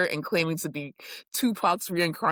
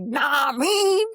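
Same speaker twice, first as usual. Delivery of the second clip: high, laughing shout in a movie voice; Scary Movie girl voice; 7 semitones higher, 4 dB louder than usual. Retold or imitated. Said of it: "the girl from Scary Movie".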